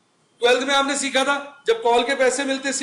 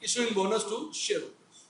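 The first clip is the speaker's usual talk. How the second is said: model interview answer; 5 dB quieter, much slower than usual. Pretend. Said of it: "छूटते बोलो".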